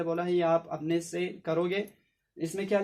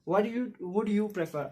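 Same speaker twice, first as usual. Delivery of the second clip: very slow repeat; slow reading; 3 semitones higher, much slower than usual. Shown as a demonstration. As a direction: repeat slowly for the class. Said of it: "आप देखो". (बहुत धीरे दोहराना)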